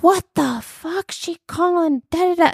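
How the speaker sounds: hammed-up annoyed rant; irritated outburst. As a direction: imitate the dad snapping after hanging up. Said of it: "and he's like".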